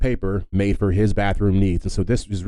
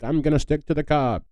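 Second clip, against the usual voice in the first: stubborn granddad; 6 semitones higher than usual. Retold or imitated. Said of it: "imagine your granddad just being like".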